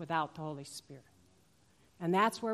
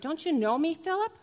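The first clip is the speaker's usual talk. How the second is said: exasperated plea; 9 semitones higher, 5 dB louder than usual. Acted. Jesus voiced pleading with Philip.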